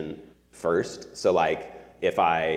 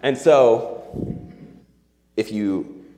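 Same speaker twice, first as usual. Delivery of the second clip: higher and louder, carrying the push; forceful pivot; 5 semitones higher, 7 dB louder, slower than usual. Real, not acted. Preacher moving on, still loud. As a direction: punch the turn.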